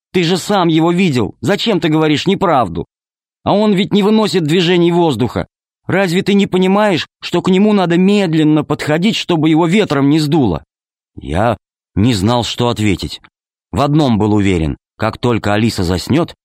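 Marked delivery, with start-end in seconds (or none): 0.1-10.6 put-on upset girl's voice. A narrator's reading. Girl reproaches father.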